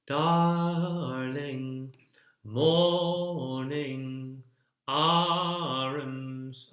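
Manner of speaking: arms stretched into two syllables, "ar-ums"; two-syllable words. Shown as a demonstration. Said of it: "making it into two syllables".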